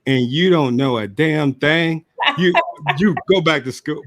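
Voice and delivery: mock scolding grandfather. Grandfather scolding in retold story.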